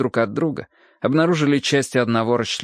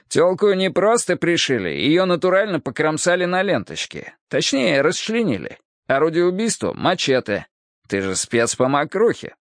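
put-on higher, cocky old cop; brash cop voice; 4 semitones higher than usual. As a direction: gossip it with a smirk. Hardwick voiced by narrator. (развязный голос бывалого копа)

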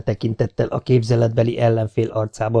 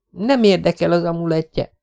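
higher, brisk interruption; cutting in; 7 semitones higher than usual. A narrator's reading. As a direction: cut him off sharply. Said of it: "vágott közbe a lány". (közbevágva)

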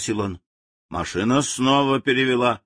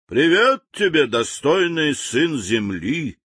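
friendly greeting; 4 semitones higher, slower than usual. Acted. General greets a captured native friendly and slow. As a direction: welcome the stranger grandly. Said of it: "приветливо произнёс генерал".

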